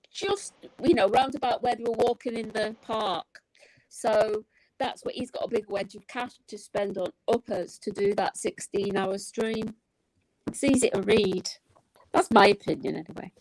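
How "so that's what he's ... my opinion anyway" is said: crackly distorted microphone; crackling mic. Real, not acted. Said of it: "your mic is crackling again".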